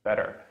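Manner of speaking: "better" said "bedder"; quick D for the T in "better"; American flap T. Shown as a demonstration. Teacher models American words, flap T. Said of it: "let's do the American now".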